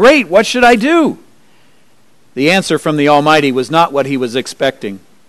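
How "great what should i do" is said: joyful, happy shout, pitched very high. Storyteller voices the man on the branch answering god, happy shout. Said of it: "so he shouted out".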